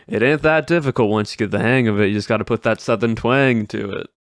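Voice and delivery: fluent, lightly voiced Southern twang; Southern accent. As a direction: say the stream catchphrase with a mild Southern accent. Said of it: "I can just start doing this type of Southern accent".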